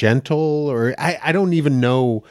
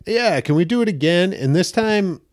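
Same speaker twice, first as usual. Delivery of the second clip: much higher, breezy director voice, slowing at the end; mock commercial director; 6 semitones higher than usual. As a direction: imitate a casual ad director giving a note. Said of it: "he was like".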